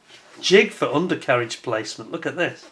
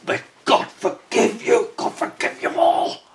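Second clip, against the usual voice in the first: slow, higher, hushed priestly intoning; mock solemn blessing; 10 semitones higher, 6 dB louder, slower than usual. Modeller mock-absolving himself for praising a rival brand, hushed and solemn. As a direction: pronounce it like a shocked priest, half joking. Mock horror at his own blasphemy.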